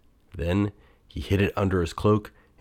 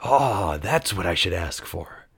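grinning idea. A narrator's reading. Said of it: "Then he grinned".

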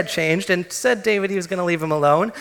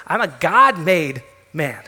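ordinary talk

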